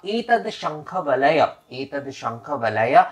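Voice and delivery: slow, drawn-out Sanskrit offering formula; deliberate teaching recitation of a mantra. Shown as a demonstration. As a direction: recite it slowly at first so learners can follow. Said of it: "उसमें कहना होगा".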